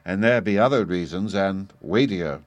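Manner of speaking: a touch of hesitation, drawing out weightier; the boy, afraid to reveal the danger, hesitating. Acted.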